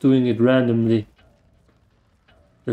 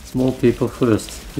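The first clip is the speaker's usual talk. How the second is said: slow mock decree; slower than usual. Shown as a demonstration. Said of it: "Small ones first".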